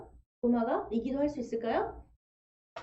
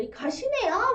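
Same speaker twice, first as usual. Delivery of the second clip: Gyeongsang dialect; 8 semitones higher, slower than usual. Shown as a demonstration. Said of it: "막 이러면서 하진 않잖아요".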